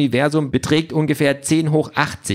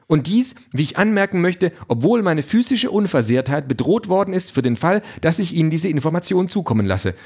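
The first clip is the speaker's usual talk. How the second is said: higher, prim machine voice; prim robot Calliope; 4 semitones higher than usual. Acted. Calliope objects to the cheating, higher and prim. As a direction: sound offended like a proper robot.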